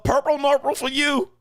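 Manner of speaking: high, loud gleeful payback call; mock triumphant cry. Acting out his revenge pinch.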